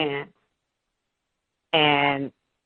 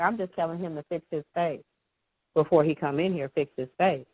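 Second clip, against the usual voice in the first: dismissive parent; 3 dB quieter than usual. Retold or imitated. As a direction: brush it off under your breath.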